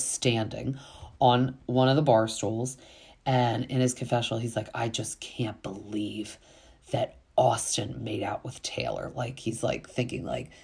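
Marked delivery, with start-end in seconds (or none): 4.7-9.1 mock whisper. Voicing JT's confessional.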